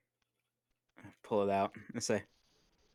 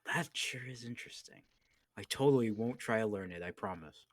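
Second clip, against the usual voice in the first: lightly hammed innocent promise; a touch of sly innocence; fake innocence; 3 semitones higher, 4 dB louder than usual. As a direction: pretend not to be interested. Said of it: "scratch my chin a little bit and I say".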